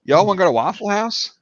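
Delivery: lightly imitated Eastern Tennessee accent. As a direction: ask in easy Eastern Tennessee. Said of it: "But Eastern Tennessee, it's".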